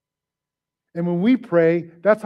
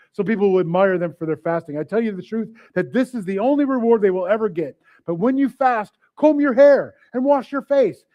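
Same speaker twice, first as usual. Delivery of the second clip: animated, raised reading; scripture reading. Acted. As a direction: read the verse to the congregation.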